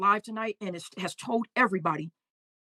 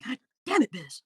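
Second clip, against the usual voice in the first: exasperated cry. Retold or imitated.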